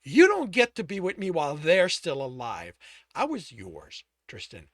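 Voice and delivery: loud bitter rage at the lover; furious accusation. Acted. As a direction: spit out the betrayal.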